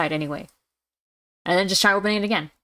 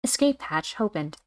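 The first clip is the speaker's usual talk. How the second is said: slow robotic system announcement; automated computer voice; 2 semitones higher, slower than usual. Acted. Hatch system announcing its status, automated computer voice. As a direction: read it out slowly like an automated computer. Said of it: "really good automated computer voice".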